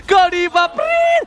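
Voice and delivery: loud drawn-out hype call; excited shout. Acted. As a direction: yell it like a goal call.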